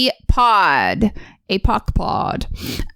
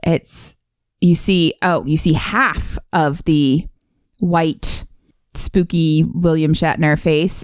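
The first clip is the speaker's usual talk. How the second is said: describing voice; 4 semitones lower than usual. Pretend. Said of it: "That's my describing voice".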